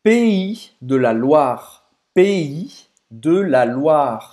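"Pays de la Loire" spoken slowly, "Pays" like "pei", "Loire" like "lwa"; slow, careful French model of "Pays de la Loire"; French pronunciation. Shown as a demonstration. Teaching viewers the region's name, slow careful French. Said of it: "você tem que falar sobre a pronúncia".

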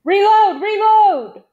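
high, loud repeated command; yelling. A narrator's reading. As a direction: shout it urgently at a comrade. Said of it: "Big John yelled at him".

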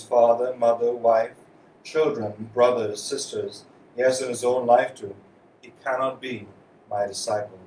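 solemn scripture reading; Gospel reading. Acted. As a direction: proclaim the Gospel to the congregation. Gospel read aloud at Mass.

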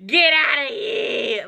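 slow, drawn-out mock outrage; hammed-up how-dare-you. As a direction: act scandalized, dragging the words. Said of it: "I was like".

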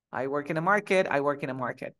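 americano con R, a volumen normal; repítelo en americano, sin proyectar; acento americano. Shown as a demonstration. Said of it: "aquí en americano". (inglés americano más casual, R audible)

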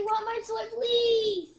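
부탁하는 말투; pleading. Shown as a demonstration. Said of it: "Or you can say".

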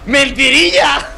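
high, drawn-out laughing tease; slow, mischievous, laughing reveal; gleeful confession. Real, not acted. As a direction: sing out the fib through laughter. Gleefully admits the fib.

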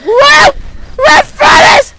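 very high, loud shrieking; jump-scare shrieks; panicked scream. Real, not acted. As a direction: scream in terror, stretching the words. Monster appears right in front.

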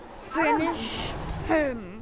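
drawn out like the fight announcer. Retold or imitated. Mimics the game announcer.

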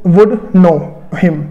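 very slow, drawn-out "you would know him"; slow dictation. Shown as a demonstration. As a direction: stretch each word for the class. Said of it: "तो क्या बोलूँगा". (बहुत धीरे खींचकर "you would know him")

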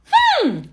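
high, falling angry "hmm"; sulky high-pitched hmm; mad huff. Acted. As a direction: huff crossly at grandma. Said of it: "I'm mad".

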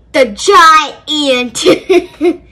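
drawn-out, laughing through it; slow laugh on the answer; laughing punchline. Real, not acted.

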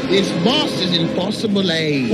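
made-up Canadian accent, hammed-up; mock Canadian accent. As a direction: put on a joking Canadian accent. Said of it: "That's Canadian".

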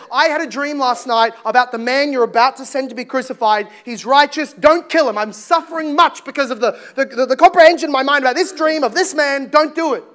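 urgent pleading. Acted. Wife begging Pilate to spare the man, urgent pleading. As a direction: press him with mild, mounting urgency.

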